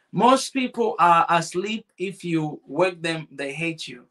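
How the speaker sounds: slow, weighty read of a saying; grave proverb read slowly; slow deliberate reading. Shown as a demonstration. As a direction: let each phrase land slowly. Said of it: "That's a good one".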